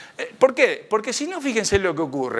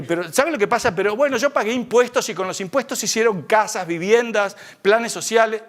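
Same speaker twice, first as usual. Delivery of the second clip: excusas nerviosas; 5 semitones higher than usual. Retold or imitated. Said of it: "a ponerme nervioso y le digo".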